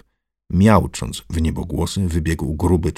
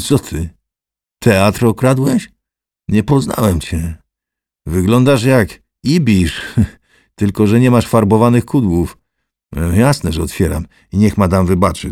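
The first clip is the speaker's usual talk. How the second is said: coarse joking louder voice; teasing gatekeeper; 3 semitones higher, 7 dB louder than usual. Acted. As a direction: rib your old pal loudly. Character teases Lichutki.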